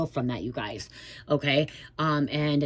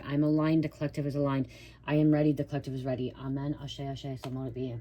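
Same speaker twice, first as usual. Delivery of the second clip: protective prayer. Acted. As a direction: pray it out steadily, calling protection down. Opens reading with protective prayer.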